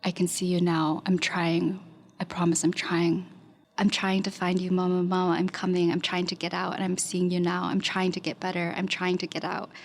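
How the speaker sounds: run-on, level-pitched reading of her own writings; barely pausing, repetitive plea read aloud; reading pleas to mom. Retold or imitated. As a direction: recite it like a looping, urgent incantation. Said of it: "calling out to her mom".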